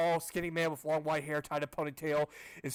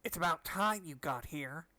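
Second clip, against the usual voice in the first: slow, lightly put-on scientist voice; drawn-out mock mad doctor; new voice attempt; slower than usual. Shown as a demonstration. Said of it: "I'll do, do some new voices".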